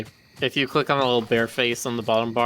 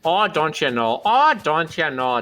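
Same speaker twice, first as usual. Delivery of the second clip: Milwaukee accent; 4 semitones higher, 3 dB louder than usual. Shown as a demonstration. Player trying a Milwaukee accent for friends, light Milwaukee. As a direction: try a Milwaukee accent, oh don't you know. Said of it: "Milwaukee accent in my head".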